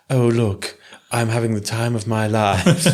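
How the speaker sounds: flat monotone squirrel voice. Pretend. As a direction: drone it like a bored squirrel. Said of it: "in my monotone squirrel voice".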